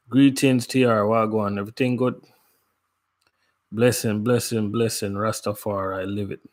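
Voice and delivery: easy Jamaican patois greeting. Real, not acted. Greeting a Jamaican viewer in Jamaican patois. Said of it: "I had to put on my patois".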